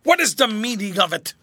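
loud, strained and frightened; gasping, choking voice. A narrator's reading. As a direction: choke the words out in alarm. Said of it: "in a gasping, choking voice".

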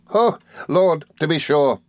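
high, amused exclamation; laughing cry. A narrator's reading. Traddles remembering the old sky-blue suit, amused. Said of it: "cried Traddles, laughing".

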